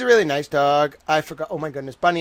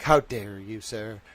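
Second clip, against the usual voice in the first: mock offended gentleman; 5 semitones lower, slower than usual. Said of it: "mumbled and was like".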